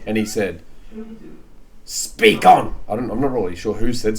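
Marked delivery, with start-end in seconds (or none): 1.8-2.7 low whispered command; voice try. Acted. Reader auditioning a voice for Laban, low whisper. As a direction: try a hushed low take. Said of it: "cycle through every voice".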